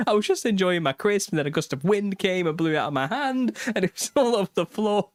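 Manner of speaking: high-pitched imitation of an upset toddler; mock a little boy pleading his case; tearful child. Son explaining the lost crisps to parents, mock tearful child. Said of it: "he's, like, streaming with tears".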